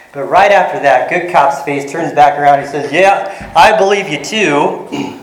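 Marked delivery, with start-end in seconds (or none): 2.9-5.2 mock sarcastic, drawn out slowly; a light sarcastic cop voice. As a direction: say it like you don't mean it. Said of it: "he said that a little bit sarcastically".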